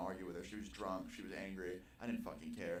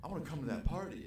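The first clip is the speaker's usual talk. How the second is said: laughing friend; 7 semitones higher, 6 dB louder, faster than usual. Retold or imitated. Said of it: "He's like".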